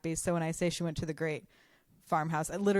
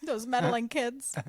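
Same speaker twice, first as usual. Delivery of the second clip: a hint of a cartoon villain, slowed; Scooby-Doo villain; 6 semitones higher, slower than usual. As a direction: grumble it like an unmasked cartoon crook. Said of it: "real Scooby-Doo mystery".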